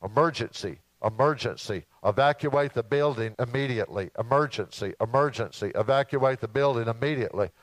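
lightly done British emergency announcement; British accent. Retold or imitated. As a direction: play a recorded British PA warning. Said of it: "saying in a British accent".

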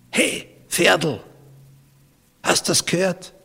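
high-pitched Austrian dialect call. Retold or imitated. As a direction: imitate an Austrian calling to a mate in dialect. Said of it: "hat im österreichischen Dialekt geredet".

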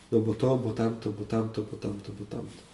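excuses fading away to near silence; mock young person's excuses, fading out. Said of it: "miałem taką rozmowę z młodą osobą".

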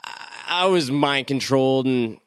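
mock the villain's grand plan; mock Apocalypse voice. Voicing Apocalypse mockingly.

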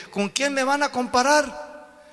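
high, slow divine challenge; God asking who can compare, high and slow. Acted. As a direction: ask it as God, slow and lofty.

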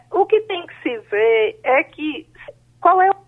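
breaking up over a bad phone line; crackly cordless phone. Real, not acted. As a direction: voice cutting in and out on the phone. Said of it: "tá cortando a tua ligação. Tá sumindo". (telefone sem fio chiando e cortando)

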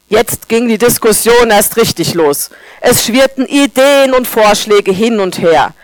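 normal talking voice

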